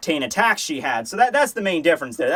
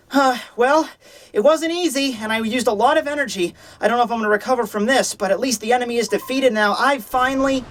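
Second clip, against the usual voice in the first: Nemu's voice; 4 semitones higher than usual. Acted. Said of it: "Nemu is now falling down".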